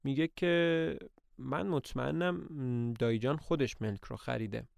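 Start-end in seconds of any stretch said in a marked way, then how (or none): 1.4-4.7 softer, gently calming her; soothing reassurance. Acted. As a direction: settle her worry softly.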